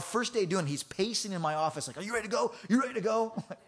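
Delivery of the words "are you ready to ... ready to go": excited. Retold or imitated. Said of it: "he was so excited".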